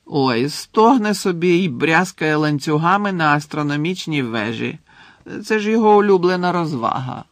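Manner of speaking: a hint of a chatty ghost, lifted voice; lightly voiced ghost. Ghost tells Harry the headmaster is back, lightly voiced. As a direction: pass on the news as an airy character.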